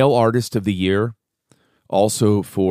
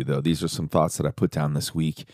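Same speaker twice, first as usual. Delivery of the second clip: ordinary talk, nothing marked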